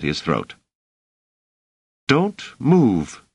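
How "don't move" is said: high, firm female character voice; tense, pitched-up command; threatening woman. A narrator's reading. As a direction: warn him with a knife at his throat. Woman holds knife to throat.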